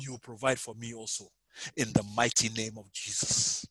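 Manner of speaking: rising and falling preaching prayer over music; fervent prayer. Acted. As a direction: pray over the listeners, pleading then settling. Leads intercessory prayer.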